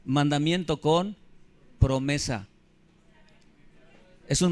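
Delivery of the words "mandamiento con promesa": slow "Mandamiento con", pause, then "promesa" falling; slow, with a beat before promesa. Shown as a demonstration. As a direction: hold it, then drop "promesa". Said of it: "pon atención".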